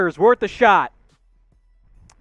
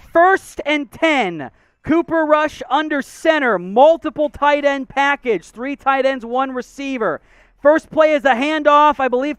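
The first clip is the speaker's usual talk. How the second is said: play-by-play; 3 semitones higher than usual. Acted. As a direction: call the plays like a broadcaster. Live play-by-play of the game.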